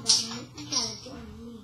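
loud call to a friend. Real, not acted. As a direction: call him over loudly. Calling to the toy loudly.

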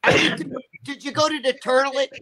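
grandmother impression. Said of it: "She always talked like that".

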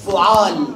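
فعال said fu'al, damma on the first letter, fatha on the second; فعال with a short u after the f, then a long a; فعال as fu'al, clearly vowelled for the class; fu'al pattern. Shown as a demonstration. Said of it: "ضم الفاء وفتحة على العين".

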